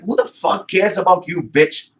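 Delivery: high, scornful retort; retold angry retort. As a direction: fling the insult back at her. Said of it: "Yeah, I seriously say".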